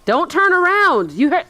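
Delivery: high urgent shout at the character; yelling at the screen. Real, not acted. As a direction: warn her, too late.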